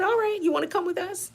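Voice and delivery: high-pitched, quick sing-song invitation; coaxing nurse. Retold or imitated. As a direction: imitate a nurse humouring a patient. Nurse coaxes faking patient along.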